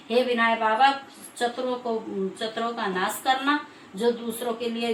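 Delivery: devout prayer to Vinayak Baba; closing prayer. Acted. Storyteller ending the katha with a prayer, devout. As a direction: pray earnestly to close the tale.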